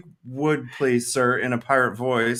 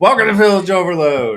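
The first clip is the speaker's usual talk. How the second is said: pirate voice; 7 semitones higher, 11 dB louder than usual. Acted. Copies the pirate greeting.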